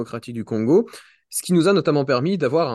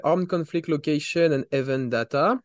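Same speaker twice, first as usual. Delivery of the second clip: English accent. Real, not acted. Host introducing the guest's research project, with an English accent. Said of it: "excusez-moi pour mon accent, euh, anglais".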